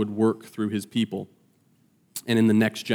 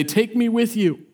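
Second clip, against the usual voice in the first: bold request; 10 semitones higher than usual. Retold or imitated. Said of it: "doesn't even go as boldly to say".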